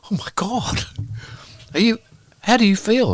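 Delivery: hushed high concern; shocked whisper. Retold or imitated. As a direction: whisper it, stunned and worried.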